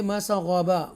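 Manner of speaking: मसग़बा stopped at the end as in waqf; pause form. Shown as a demonstration. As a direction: say मसग़बा cut short at the stop. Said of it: "फिर हम ऐसे पढ़ेंगे".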